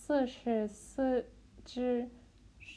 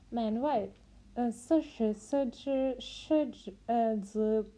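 struggling tongue twister attempt; 3 dB louder than usual. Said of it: "I will never".

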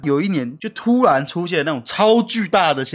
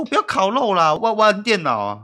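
put-on whiny kid; 5 semitones higher than usual. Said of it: "我就说".

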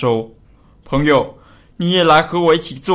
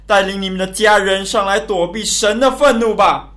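public announcement building to a louder appeal; loud proclamation. Acted. Noah proclaims to townsfolk at the ark door, voice rising into a loud plea. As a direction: address the crowd, then call out to them. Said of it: "挪亚大声地宣告说".

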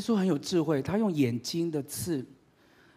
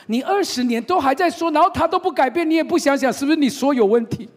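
loud, high, scolding sing-song; higher, louder scolding with a laugh; mock nagging; 10 semitones higher, 11 dB louder than usual. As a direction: throw the nagging back at her. Mocking the nagging mother.

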